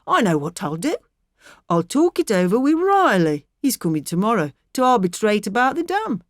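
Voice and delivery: a lightly voiced blunt farmer chiding his wife; a hint of a gruff husband scolding; stubborn husband. A narrator's reading.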